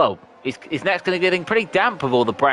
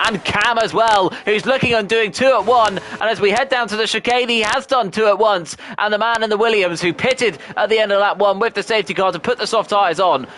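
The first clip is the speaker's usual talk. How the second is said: excited commentary; 6 semitones higher than usual. Real, not acted. Rising excitement over overtakes.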